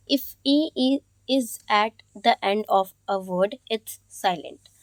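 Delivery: "If E is at the end of a word, it's silent" read out slowly; slow rule reading. Acted. Teacher reading rule five slowly to students.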